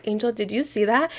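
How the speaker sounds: softly imitating the cousin's question; hushed question. Cousin's question retold, much softer.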